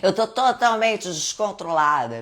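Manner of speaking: loud, high, slow words through real laughter; cracking up while joking she's lost control; laughing at herself. Real, not acted. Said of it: "Eu tô sem limites, eu tô sem controle".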